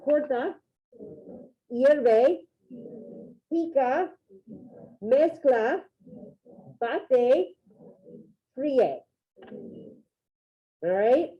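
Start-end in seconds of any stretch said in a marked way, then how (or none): 0.0-9.0 each word spaced out, Corta, hierve, pica with rising tune; modelling for repetition. Shown as a demonstration. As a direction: say each word for the class to repeat. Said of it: "So repeat them".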